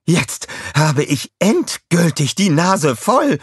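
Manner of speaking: high, slow angry villain snarl; growling. A narrator's reading. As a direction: snarl it through fury. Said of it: "knurrte sie".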